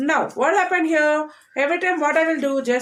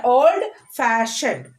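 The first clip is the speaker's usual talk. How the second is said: put-on old fashioned slowly, with fash stressed; careful demo of old fashioned stressing fash; much slower than usual. Shown as a demonstration. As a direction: lean on fash in old fashioned, then fall. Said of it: "first letter we are stressing".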